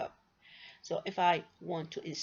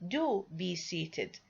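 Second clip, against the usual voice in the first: very slow, "Do" drawn out and set apart; insistent; much slower than usual. Shown as a demonstration. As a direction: insist word by word, starting on a long "Do". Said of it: "Here I am insisting".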